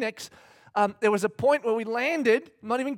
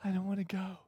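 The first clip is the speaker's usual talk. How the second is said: put-on whiny child; 11 dB quieter, faster than usual. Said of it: "she starts that thing".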